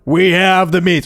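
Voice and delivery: a hint of an announcer in an ad; lightly voiced ad announcer; mock commercial line; Arby's ad voice. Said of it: "sounded like the Arby's commercial".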